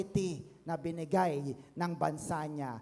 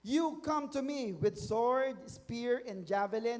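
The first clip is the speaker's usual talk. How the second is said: David's shouted reply; 3 semitones higher than usual. Acted. David answering Goliath's shout, mildly shouted challenge. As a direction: declaim it as a defiant reply. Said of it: "David shouted in reply".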